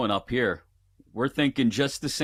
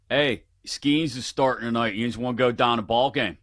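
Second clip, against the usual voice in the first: Pittsburgh accent. Shown as a demonstration. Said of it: "use it in a sentence for me".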